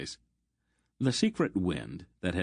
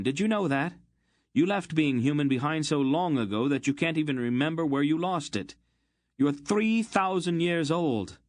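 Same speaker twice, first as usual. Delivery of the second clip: much higher, louder raging outburst; furious tirade; 8 semitones higher, 3 dB louder than usual. A narrator's reading. Geryon raging at Aunt Paul, furious. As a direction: let the anger run away with him.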